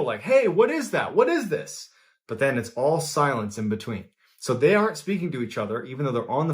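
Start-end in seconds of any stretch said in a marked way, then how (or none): 0.2-1.9 much higher-pitched mock yell; retold yelling. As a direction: imitate an alarmed shout of questions, not full volume. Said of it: "Michael is yelling in the beginning".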